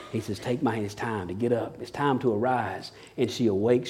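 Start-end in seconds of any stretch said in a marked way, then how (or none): 0.4-2.9 quiet fatherly whisper; tender hush. Acted. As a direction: coax a child awake gently. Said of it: "whispering in her ear".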